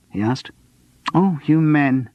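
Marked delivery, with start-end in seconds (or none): 1.1-2.1 lightly voiced simpering woman; coy, simpering reply. A narrator's reading. Sandra simpers at the man offering a drink, lightly voiced. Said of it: "she simpered".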